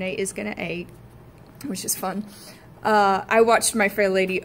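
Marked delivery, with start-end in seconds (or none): 0.0-0.9 Cockney Eliza. Retold or imitated. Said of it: "Eliza, saying".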